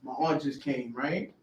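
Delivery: low, measured reassurance; prep talk. Retold or imitated. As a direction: coach her gently, pitched well down. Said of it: "giving her a little prep talk".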